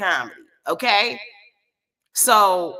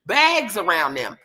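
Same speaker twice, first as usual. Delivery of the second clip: mildly raised, indignant retelling; retold loud outburst. Demanding the parents of two kids, loud and indignant. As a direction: re-enact a loud public call-out. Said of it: "Now, I'm loud as hell".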